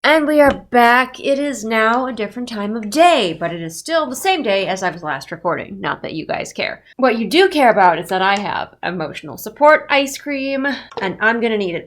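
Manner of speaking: stuffy blocked nose; talking through a congested nose. Real, not acted. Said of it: "if I sound congested".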